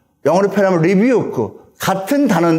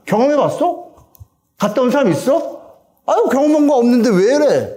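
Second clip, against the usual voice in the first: higher-pitched mock disbelief; dismissive skeptic; 6 semitones higher than usual. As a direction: act out a doubter scoffing at the afterlife. Acting out people denying an afterlife. (따져 묻는 회의적인 말투)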